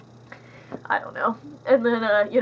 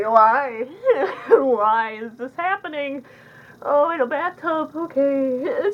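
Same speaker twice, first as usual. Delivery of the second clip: higher and louder, laughing in disbelief; incredulous viewer, half-laughing; baffled disbelief; 6 semitones higher, 5 dB louder, slower than usual. Retold or imitated. Viewer baffled by bathtub scene.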